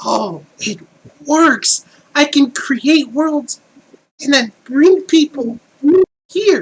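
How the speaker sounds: high, slow, gleeful villain voice.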